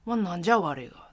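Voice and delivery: gruff Hiroshima-dialect "なんじゃ我が"; harsh Hiroshima dialect. Shown as a demonstration. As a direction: snarl it like a Hiroshima tough. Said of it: "きつく、きつく。".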